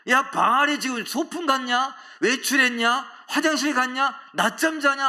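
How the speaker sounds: loud, high jeering questions; mocking taunt. Elijah to the priests of Baal, mocking. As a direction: pile up sarcastic questions, pitched high. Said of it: "막 이러면서 조롱했잖아요".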